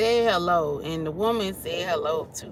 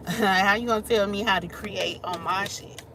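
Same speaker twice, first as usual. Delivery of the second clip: laugh-crying disbelief. Real, not acted. Laughing outrage at critic.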